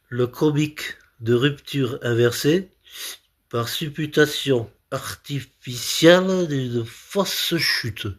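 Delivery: slow, careful recital in separated chunks; laboured concentration. Shown as a demonstration. Comedian concentrating on a difficult comic term, laboured. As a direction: pick through a difficult term piece by piece. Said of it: "je me concentre parce que c'est difficile".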